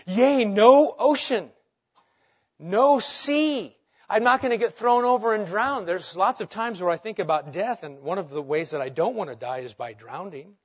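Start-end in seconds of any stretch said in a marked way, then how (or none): 0.1-5.9 mock panic. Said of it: "how I would respond".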